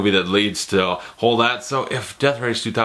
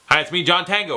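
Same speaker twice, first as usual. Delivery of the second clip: crisp, higher, brisk introduction; Stallone; 6 semitones higher, faster than usual. Retold or imitated. Reviewer mimicking the actor as a slick cop, crisp and quick. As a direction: rattle it off clearly with no slur. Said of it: "he's also talks very fast in the movie".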